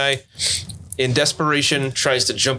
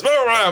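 high mock roar; imitated roar; 11 semitones higher, 3 dB louder than usual. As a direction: imitate someone roaring to distract. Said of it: "so he goes".

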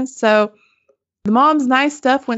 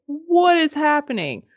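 higher, imitating a bewildered reaction; retold astonishment, pitched up; stunned disbelief; 4 semitones higher than usual. Appraiser's wife reacting to soaring bids, stunned.

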